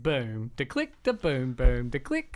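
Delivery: imitating a broad Australian accent beatboxing. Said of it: "a very Australian accent".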